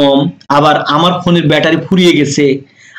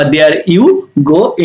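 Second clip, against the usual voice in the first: very slow, careful phrase; slow model phrase; 2 semitones lower, much slower than usual. Shown as a demonstration. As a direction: draw it out for learners. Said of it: "বা". (খুব ধীরে বলা)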